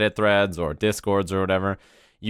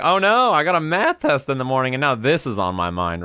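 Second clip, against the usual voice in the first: put-on higher, panicky kid worrying about a test; a younger self fretting over a math test; teen self fretting; 4 semitones higher than usual. Fifteen-year-old self worrying about his math test, higher and fretful. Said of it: "Fifteen-year-old me is like".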